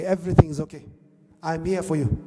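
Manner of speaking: low, soft retold comforting; gentle reassurance. Husband comforts his wife on her deathbed, reassuring. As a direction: drop the voice to reassure tenderly.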